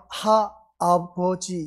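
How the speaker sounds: 하아버지 said slowly with the ㄹ dropped; misspelled word. Shown as a demonstration. Pastor reads the child's misspelling: slow 하아버지. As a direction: spell out 하아버지 without the ㄹ, slow. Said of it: "이렇게 써놓고".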